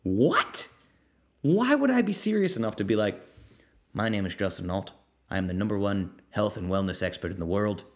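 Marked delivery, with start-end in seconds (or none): 3.9-7.8 arrogant expert impression. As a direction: puff yourself up like a smug guru. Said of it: "I've done a lot of weird impressions".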